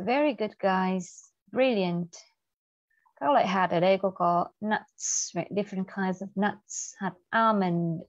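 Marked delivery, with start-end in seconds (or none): none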